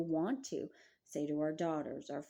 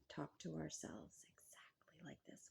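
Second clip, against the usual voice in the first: whispered confession; 16 dB quieter than usual. Real, not acted. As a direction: lean in and confide it in a whisper. Intimate admission to women viewers.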